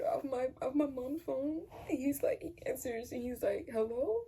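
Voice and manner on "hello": puzzled questioning hello with a rise; confused. Retold or imitated. Dad answering call from mom's phone, confused. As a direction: answer as if unsure who's calling. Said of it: "Like, all confused".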